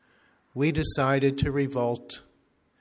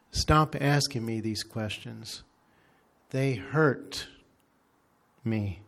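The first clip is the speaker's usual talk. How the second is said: real slow. Retold or imitated. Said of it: "And then said real slowly".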